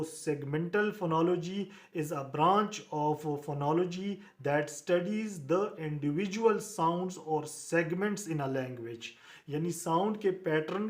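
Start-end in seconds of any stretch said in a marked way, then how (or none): 0.0-9.1 slow, deliberate reading of an English definition; teacher dictating notes; slow dictation. Shown as a demonstration. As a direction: spell it out slowly for the class to copy.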